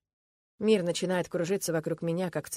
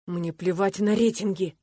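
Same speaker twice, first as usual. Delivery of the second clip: hissing coach; 5 dB louder, slower than usual. Acted. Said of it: "шипит тренер".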